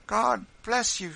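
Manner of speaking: high, loud, slow blessing; overcome with emotion. A narrator's reading. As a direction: cry out thanks, overwhelmed. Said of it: "covering her face and sobbing".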